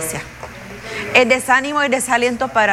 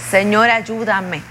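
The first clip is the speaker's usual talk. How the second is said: slow plea; 2 semitones lower, slower than usual. Shown as a demonstration. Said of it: "nos hemos levantado".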